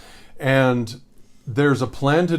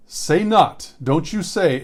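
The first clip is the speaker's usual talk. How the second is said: commanding; 5 semitones higher, 3 dB louder, slower than usual. Pretend. God's command quoted, exclaimed.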